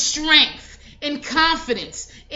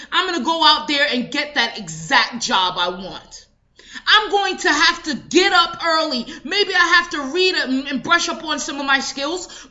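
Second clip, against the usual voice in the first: self-pep talk; faster than usual. Retold or imitated. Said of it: "Gain that power that's inside and say".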